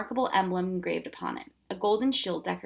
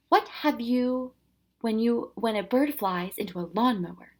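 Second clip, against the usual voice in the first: jolly professor voice; 3 semitones higher than usual. Acted. Professor tells riddle voice.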